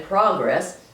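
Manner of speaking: "progress" as PRAH-gress, open ah stressed; first-syllable stress. Shown as a demonstration. Lecturer comparing variants of the word, open-ah pronunciation. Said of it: "emphasis on the first syllable".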